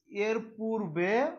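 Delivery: এর পূর্বে drawn out slowly, rising at the end; slow, suspended dictation of এর পূর্বে. Shown as a demonstration. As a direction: stretch এর পূর্বে for note-takers. Repeats slowly for students writing.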